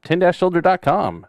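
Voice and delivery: lightly voiced radio announcer read. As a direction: pitch it like a promo spot, lightly. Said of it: "Sounds like an announcer voice".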